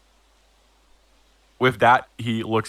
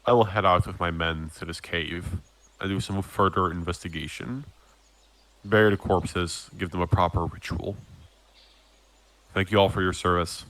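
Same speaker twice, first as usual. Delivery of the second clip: lightly voiced low, measured captain; solemn captain; 4 semitones lower, 3 dB quieter than usual. Captain addresses Glint about the goddess's word, lightly voiced solemnity. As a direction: lower your voice slightly for a grave officer.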